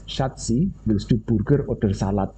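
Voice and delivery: German spoken with a thick East Javan accent, lightly imitated; a touch of East Javan medok accent in German. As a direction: mimic the East Javan lady's German to her husband. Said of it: "she said it precisely like this".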